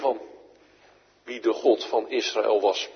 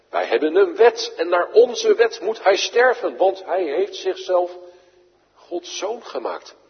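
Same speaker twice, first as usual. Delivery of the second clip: accusers; 5 semitones higher, 4 dB louder than usual. Acted. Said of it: "Zwaar was de aanklacht tegen hem".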